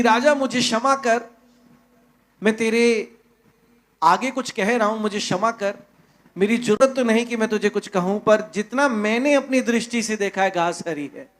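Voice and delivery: a humble, respectful plea to the king; bow your head and ask pardon gently. Acted. चीता सिर झुकाकर राजा से, आदर भरी विनम्र आवाज़ में. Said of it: "आदरणीय से कहा".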